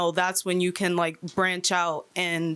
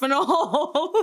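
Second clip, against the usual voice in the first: laughing; 7 semitones higher, 3 dB louder than usual. Real, not acted. Laughing at own joke.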